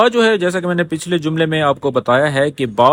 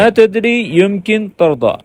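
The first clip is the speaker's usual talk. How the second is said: careful model line; 3 semitones higher, slower than usual. Shown as a demonstration. Teacher stressing good pronunciation to students, slow and precise. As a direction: say ما تدری يمكن ترضى slowly, each sound exact. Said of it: "pronunciation آپ نے اس کی بڑی اچھے سے کرنی ہے".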